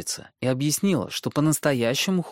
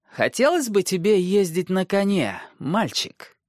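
sly dwarf voice; 8 semitones higher than usual. Acted. Tyrion offers gift.

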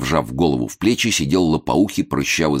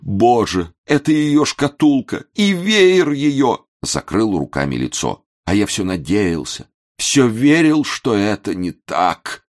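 sobbing lament; 6 semitones higher, slower than usual. A narrator's reading. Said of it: "всхлипнул".

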